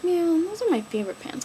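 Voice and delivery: high mock whine over ruined pants; sad whine. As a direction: lament it in a high pouty voice. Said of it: "I was so sad".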